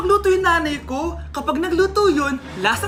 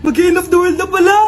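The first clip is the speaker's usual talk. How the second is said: calling out; 7 dB louder than usual. Acted. Neighbours calling out in fright.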